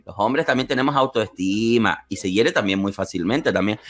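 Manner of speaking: mock lecture on male self-esteem; mock solemn correction. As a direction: correct him like a pompous teacher. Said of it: "lo corregí en plan".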